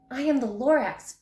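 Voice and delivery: a touch of a gruff little Lorax; Lorax announcing himself. A narrator's reading. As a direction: puff up and declare yourself. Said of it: "he coughed".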